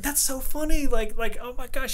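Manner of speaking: high-pitched mock amusement; imitating amused manager. Host mimicking the laughing general manager, high and amused. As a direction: put on her tickled, high voice. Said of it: "She's, like, laughing and she's like".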